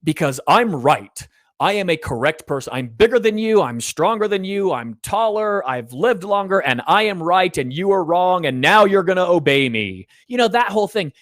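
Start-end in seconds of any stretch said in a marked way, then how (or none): 0.0-10.1 lower, puffed-up dad who knows he's right; deeper dad voice. Retold or imitated. Dad escalating against his defiant child, low and domineering. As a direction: stand tall and drop the voice to lay down the law. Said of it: "the voice gets deeper".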